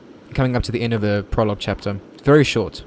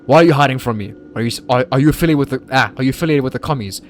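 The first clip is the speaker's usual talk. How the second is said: louder barked instructor yelling at a student; stern instructor shout; 2 semitones higher, 7 dB louder, faster than usual. Retold or imitated. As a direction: yell like a scary drill instructor, stumbling. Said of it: "perfect imitation".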